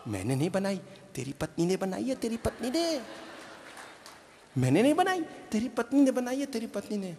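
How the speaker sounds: hushed warning. Retold or imitated. Mother hushing son in his ear, softly. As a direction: warn him softly so the wife won't hear. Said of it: "माँ ने कान में आके कहा".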